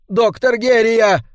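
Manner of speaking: high, drawn-out urgent call; insistent calling out. A narrator's reading. Servant calling the doctor through a locked door, insistent high call. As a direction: call his name to get through to him. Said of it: "снова позвал его Карл".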